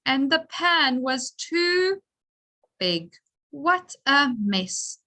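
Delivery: put-on slow, lively read-aloud for young pupils; teacher reading a story with the class; reading to children. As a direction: read it slowly and brightly for the children.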